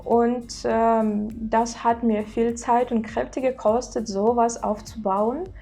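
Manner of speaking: German in a learned native-like accent; practised German accent. Shown as a demonstration. Showing viewers a self-taught accent in German, practised German accent. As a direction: speak German with a carefully imitated native accent. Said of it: "I can talk a little bit in German".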